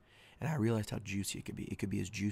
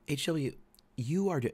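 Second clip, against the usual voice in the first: exasperated wife; 7 semitones higher, 5 dB louder than usual. Retold or imitated. Wife scolds him, exasperated.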